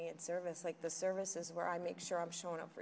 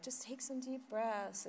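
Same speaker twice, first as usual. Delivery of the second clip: mock meditation voice; 4 semitones higher, slower than usual. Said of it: "the meditation is like".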